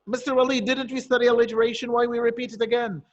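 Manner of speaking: a hint of a protesting student; questioning student. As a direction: put on a puzzled pupil querying the teacher. Teacher voices a questioning student.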